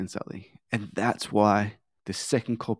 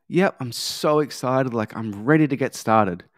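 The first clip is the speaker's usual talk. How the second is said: emphatic yes. Shown as a demonstration. Client Sally giving the coach a keen, eager yes. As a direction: sound sold and ready to start. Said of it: "where she says an emphatic yes".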